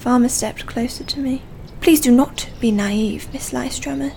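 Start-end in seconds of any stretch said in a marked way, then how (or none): 1.8-4.1 icy. Acted. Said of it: "she said icily".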